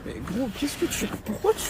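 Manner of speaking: annoyed driver scolding his friend; exasperated. Acted. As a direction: snap at him for climbing in.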